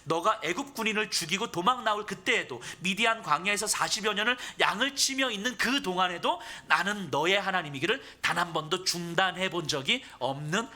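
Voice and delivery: full-force preaching. Acted. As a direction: declare it to the congregation as God speaking. Preaches God's words to Moses.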